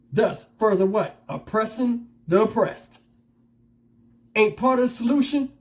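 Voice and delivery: fired up, preaching to the viewers; getting hyped up. Real, not acted. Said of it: "I started getting hype".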